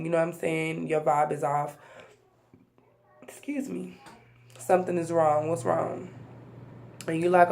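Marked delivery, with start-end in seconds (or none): 3.2-4.0 whisper. Real, not acted. Aside while addressing viewers.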